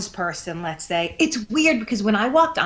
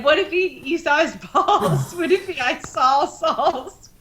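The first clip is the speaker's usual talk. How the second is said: laughing; 6 semitones higher than usual. Retold or imitated. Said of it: "one of them said".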